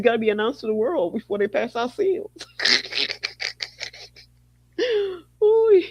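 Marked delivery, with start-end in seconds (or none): 2.3-4.0 wheezing laugh. Real, not acted. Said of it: "I can't stop laughing". 5.4-5.8 squeal. Real, not acted. Squeals while laughing.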